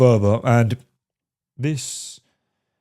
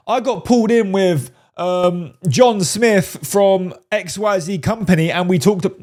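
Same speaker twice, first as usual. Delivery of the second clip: over-explaining guy; 6 semitones higher than usual. Retold or imitated. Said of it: "He doesn't say".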